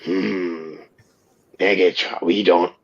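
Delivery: dinosaur robot voice. Pretend. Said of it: "Me Dinobots".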